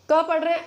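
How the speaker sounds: क said loud with a clear अ vowel; clear क demo. Shown as a demonstration. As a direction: voice क so the अ is heard. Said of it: "आपको इसमें ध्वनि सुनाई दे रही है". (क को अ की ध्वनि के साथ)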